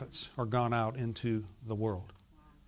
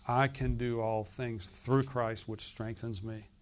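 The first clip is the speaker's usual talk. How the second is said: gentle reassurance; 4 semitones lower, 5 dB quieter, slower than usual. Acted. Reply to weak believer.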